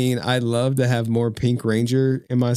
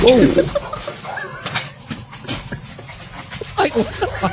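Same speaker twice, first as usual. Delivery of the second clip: shocked whoa. Real, not acted. Shocked by clip.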